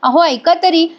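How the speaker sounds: lightly acted pleading call; Suman retold cry out. Wife dragged away begging to be heard, mild mock yell. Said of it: "Suman ओरडत असते".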